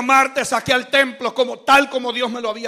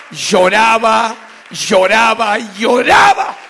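"lloraba" repeated slowly, building to a cry on the last; repetición creciente; 4 dB louder, slower than usual. Retold or imitated. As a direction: stretch each "lloraba", swelling to a shout. Repeats the word, building to shout. ("lloraba" repetido lento, cada vez más intenso)

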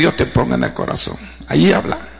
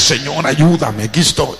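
pleading prayer; 4 semitones lower than usual. Acted. Voicing a plea to God.

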